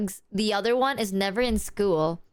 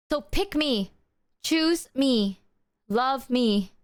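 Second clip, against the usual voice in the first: mock Meredith plea; 3 semitones higher, slower than usual. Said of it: "I stimmed this for so long".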